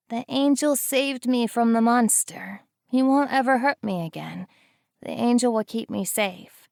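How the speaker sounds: put-on high, small child's voice, full of trust; a rescued girl telling what happened; earnest little girl. A narrator's reading. Child answers for narrator.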